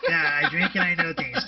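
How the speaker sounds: repeating it through a laugh. Retold or imitated. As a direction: echo the line while laughing.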